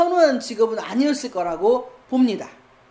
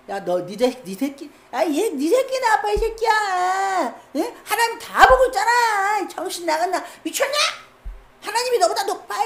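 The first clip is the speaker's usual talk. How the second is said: high, scornful rebuke of a king; defiant scolding; 8 semitones higher than usual. Acted. Midwife retold defying the king again, high scornful scolding. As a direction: midwife telling off the king, mocking and fierce. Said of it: "이렇게 했겠죠".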